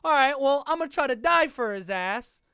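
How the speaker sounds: a loud, cocky imitation of the defender; mocking a doomed tackler, loudly. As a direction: yell it like a defender who thinks he'll make the tackle. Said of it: "this fucking dumbass right here is like".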